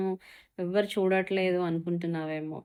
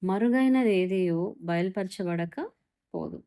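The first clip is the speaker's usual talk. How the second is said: slow emphatic; slower than usual. Shown as a demonstration. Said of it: "విన్నరా?".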